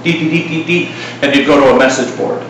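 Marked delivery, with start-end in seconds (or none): 0.0-0.9 dial-up tones. Retold or imitated. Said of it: "your little dial-up".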